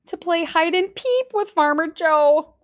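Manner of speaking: loud, high duck shouting the joke; shouted punchline. A narrator's reading. Duck sister shouting her joke at the table. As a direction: belt out the punchline. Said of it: "Sandy shouted".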